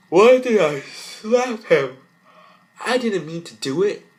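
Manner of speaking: high, loud and slow anguished cry; girl sorry she slapped her brother; remorseful wail. Acted. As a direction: drag the words out in remorse.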